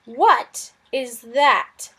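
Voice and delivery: slow, suspicious disapproval; disapproving. Acted. Lizard Suz frowning at the kitten, slow and disapproving. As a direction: eye the kitten with distaste. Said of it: "he said disapprovingly".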